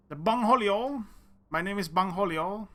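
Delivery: hint of Beavis as Cornholio; Cornholio impression. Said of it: "Wasn't that from Beavis and Butthead".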